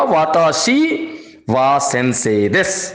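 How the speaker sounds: वाताशी वा सेंसे देस with वा added, slowing down. Shown as a demonstration. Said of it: "अब हमारा सेंटेंस बन गया".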